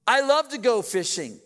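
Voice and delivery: imitating an overkeen girlfriend; eager girlfriend. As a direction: gush like she means it. Girlfriend's eager lying reply.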